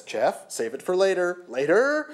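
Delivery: urgent hushing, rising on later; nervous urging. Acted. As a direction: plead nervously. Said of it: "a nervous moo".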